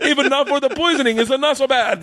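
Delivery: retold quote, high with laughter; laughing retelling. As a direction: quote him while cracking up. Retells a quote while cracking up.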